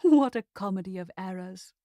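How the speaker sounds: ordinary delivery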